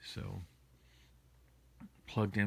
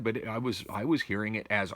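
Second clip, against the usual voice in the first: normal talking voice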